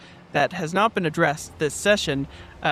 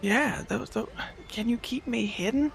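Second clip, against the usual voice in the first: put-on southern accent hyena; 6 semitones higher, 5 dB quieter than usual. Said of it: "in a southern accent".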